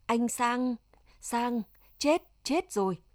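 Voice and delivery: mild, halting wail of grief; understated sobbing lament in broken repeats. A narrator's reading. Women in the pit mourn Sang to neighbours, wailing. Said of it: "chỉ còn sức để gào khóc, than thở".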